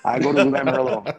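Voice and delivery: put-on punchy, amateur French accent; attempted French accent. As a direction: play a French-accented teammate making a threat. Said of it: "trying to do a French accent".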